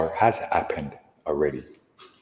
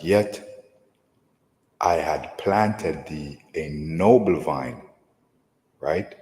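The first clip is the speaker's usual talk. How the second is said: slow, solemn King James reading; scripture reading; much slower than usual. Acted. Teacher reading Jeremiah to his listeners, slow and solemn. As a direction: draw each phrase out like holy writ. Reads Jeremiah verse aloud.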